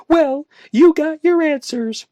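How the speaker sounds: high, loud, slow angry roar. A narrator's reading. Woman roaring at her friend in anger. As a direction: roar it at him. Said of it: "Joanna roared".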